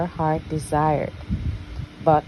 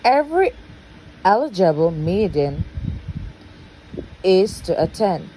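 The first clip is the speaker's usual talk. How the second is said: stepmother's announcement; 2 semitones higher than usual. Acted. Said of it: "stepmother announced".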